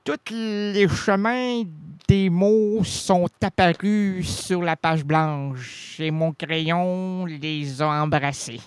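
very slow, drawn-out recital; poetic recitation. Pretend. Host recites his own composition for the guest, slow poetic recitation. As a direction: recite slowly, stretching the words.

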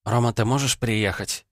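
put-on the girl trying to explain; girl's voice. A narrator's reading. Vanda's voice.

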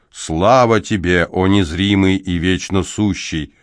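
solemn exclamation. Acted. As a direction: settle the praise down to an end. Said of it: "воскликнул Небамон".

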